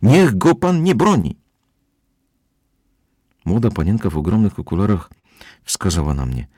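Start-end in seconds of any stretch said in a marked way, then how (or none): 0.0-1.4 high, slow loud yell. A narrator's reading. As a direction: shout a warning. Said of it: "wrzeszczał Petersen".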